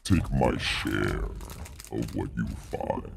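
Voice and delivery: measured, haughty dragon voice; a lightly voiced proud dragon bargaining. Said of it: "dragon deep voice".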